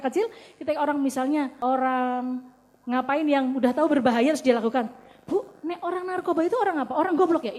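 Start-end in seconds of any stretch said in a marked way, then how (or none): 5.2-7.6 put-on lightly raised child's question; child asking. Child asking mother whether drug users are stupid, lightly voiced. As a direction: ask it like a curious kid.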